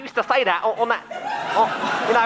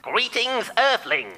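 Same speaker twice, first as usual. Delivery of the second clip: put-on old speech synthesizer. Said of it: "Brian O'Green on the phone".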